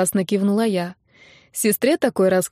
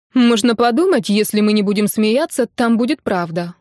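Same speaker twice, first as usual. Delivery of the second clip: smirking. Acted. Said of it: "ухмыльнулась Кира".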